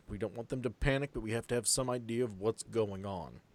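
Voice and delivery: lightly voiced commander's briefing; steady, deliberate orders with a hint of authority; Boyd's voice. Game master as Boyd addressing the militia, lightly voiced commander. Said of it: "I love this voice".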